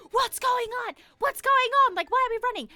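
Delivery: imitating a flustered mum; impatient mum. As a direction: fuss like an impatient mother. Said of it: "my mum being the impatient lady".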